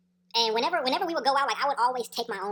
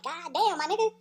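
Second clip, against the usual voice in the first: high-pitched mock disbelief; higher-pitched retold exclamation; 7 semitones higher than usual.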